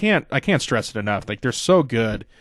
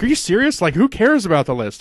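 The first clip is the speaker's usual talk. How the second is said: much higher, disbelieving Owens impression; incredulous Owens; 8 semitones higher than usual. Owens to Jericho over the list, high and incredulous. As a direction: scoff like it's absurd. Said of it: "he's like".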